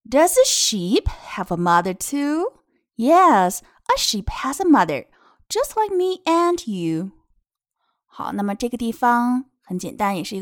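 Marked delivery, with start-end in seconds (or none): 0.0-7.1 put-on lilting, drawn-out reading to children; picture-book reading. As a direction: read each phrase clearly for little listeners. (给孩子读绘本)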